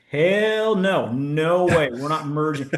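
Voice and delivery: a blunt retold no way; emphatic refusal. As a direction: shut the idea down hard. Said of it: "And I'm like".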